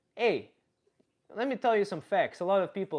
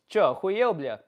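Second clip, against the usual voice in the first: a brash Russian street comeback, a touch louder; mock rude comeback; 3 semitones higher, 6 dB louder than usual. To Russians who think she can't understand, cheeky comeback. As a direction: snap it back like a cheeky retort. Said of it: "funny comeback for when Russian are talking".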